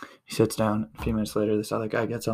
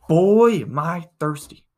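high, loud, drawn-out moan to nobody; loud whiny complaint; 7 semitones higher, 6 dB louder, slower than usual. Retold or imitated. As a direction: announce your thirst to the whole carriage. Stranger calls out again.

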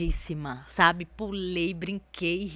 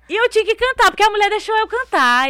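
very high, very loud outburst; shrieking excitement, pitched way up; overwhelmed shriek; 13 semitones higher, 13 dB louder than usual. Retold or imitated. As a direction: yell it in giddy panic. Re-enacts panic at having to sing.

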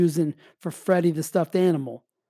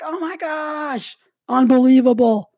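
put-on amazed kids; 6 semitones higher than usual. Parent imitating kids amazed at the elf each morning, slow high awe. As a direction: mimic kids gasping in wonder.

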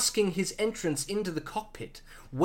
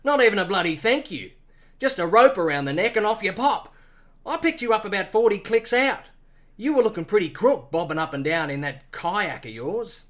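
put-on Australian accent; 2 semitones lower, faster than usual. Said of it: "Australian accent".

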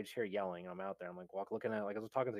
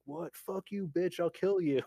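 higher-pitched mock outrage; angry threat; 7 semitones higher, 5 dB louder, slower than usual. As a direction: act out an aggrieved man's threat. Retelling a stranger's threat to girl.

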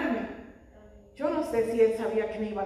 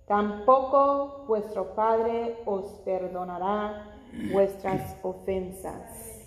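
solemn Scripture reading; 3 dB louder, slower than usual. Real, not acted. Reads Scripture aloud to congregation.

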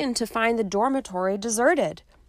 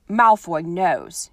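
abrupt; 6 dB louder, slower than usual. Acted. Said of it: "he said abruptly".

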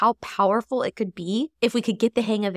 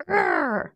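frustrated growl; 8 semitones higher than usual. Retold or imitated. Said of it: "you're just feeling like".

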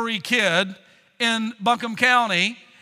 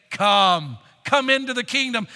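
a warm inviting come; welcoming call; 3 dB louder than usual. Shown as a demonstration. Preacher inviting the saints in, warmly welcoming. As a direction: call them in gladly. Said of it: "Here's the way to say it".

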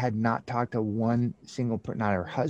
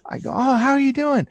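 much higher and louder, bubbly delight; gushing excited greeting; 5 dB louder, faster than usual. Retold or imitated. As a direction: greet her like you're on cloud nine. Meeting friend, elated after promotion.

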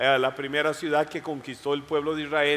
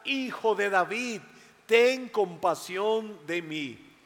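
pleading plea; 4 semitones higher, slower than usual. Acted. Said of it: "volvió a gritar".

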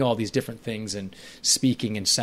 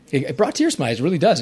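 moved to tears; 5 semitones higher, 6 dB louder, faster than usual. Real, not acted. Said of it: "even welling up right now".

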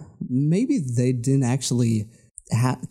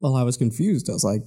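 normal talking voice

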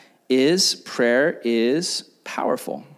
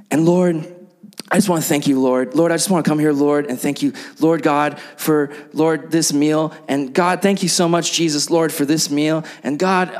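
lightly hammed-up mealtime prayer filler; mock repetitive prayer. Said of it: "vain repetitions, we all do it, where you pray".

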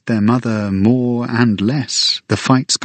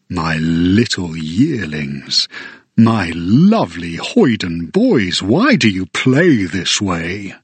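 put-on slow, tender old king; a hint of a fond king; lightly voiced king; 3 semitones lower, slower than usual. King addresses his sons.

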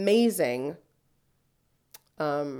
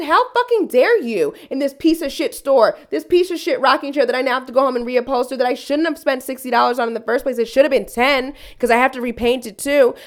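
louder, higher indignant tirade; outraged rant; 4 semitones higher, 4 dB louder than usual. Retold or imitated. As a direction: scold her for the insult. Retold angry clapback at owner.

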